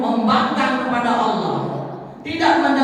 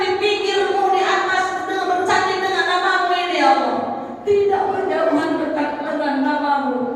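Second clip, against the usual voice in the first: raised, singsong plea; pleading Adam; 5 semitones higher than usual. Acted. Adam asking Allah about the name, raised and pleading. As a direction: ask with wonder and longing.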